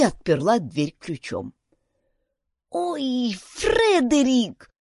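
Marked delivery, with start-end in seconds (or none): 2.7-4.7 high, drawn-out pained moan; groaning.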